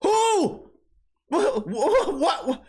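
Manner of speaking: high, hammed-up startled squeak; comic high-pitched shock; mock startled. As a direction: pretend to be caught off guard.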